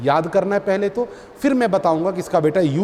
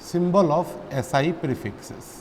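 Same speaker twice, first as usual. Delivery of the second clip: slow dictation; 5 dB quieter, much slower than usual. Shown as a demonstration. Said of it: "dictating slowly to write down".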